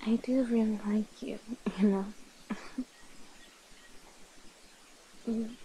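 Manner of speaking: soft, intimate murmur; tender confession. Acted. Vampire confessing affection to a new love, tender and hushed. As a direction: quietly confide with affection.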